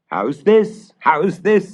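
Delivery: high, loud, stern demand; stern father demanding. Acted. Father sternly confronting the stepmother, loud. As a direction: demand an answer, furious.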